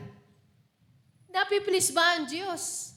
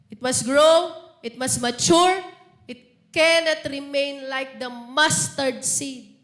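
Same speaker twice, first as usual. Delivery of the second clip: forceful preaching; 2 semitones lower, 6 dB louder, slower than usual. Acted. Preacher building emphasis.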